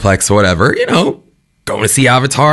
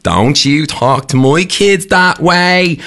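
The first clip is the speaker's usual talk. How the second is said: slow, indignant Dublin mother; a mother in a cinema scolding in a Dublin accent; 7 semitones higher, much slower than usual. Retold or imitated. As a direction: drawl it out like an angry Dublin mum. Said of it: "so forgive the accent".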